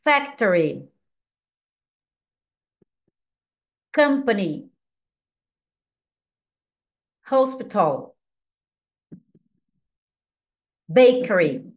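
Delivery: each English word ("Factory", "Company", "Hospital", "Bakery") said clearly and separately, with pauses; careful teacher model of each word; teacher saying English words for students to imitate; model pronunciation. Shown as a demonstration. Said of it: "você me imita".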